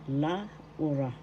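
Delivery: "Laura" split as La-u-ra; careful pronunciation. Shown as a demonstration. Teacher explains the pronunciation of "Laura", syllable by syllable. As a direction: give "Laura" three separate syllables. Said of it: "because of pronunciation is Laura".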